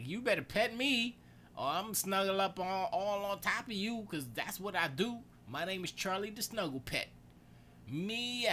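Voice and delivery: high-pitched talking cat voice; Charlie. Retold or imitated. Cat insisting on being petted and snuggled, playful high voice. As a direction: demand petting like a pushy cuddly cat. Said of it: "he's like".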